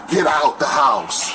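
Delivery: slow, shouted order; retold order. Ex ordering the boyfriend out of her house, slow retold shout. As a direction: spell out each word like a command. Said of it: "And she's like".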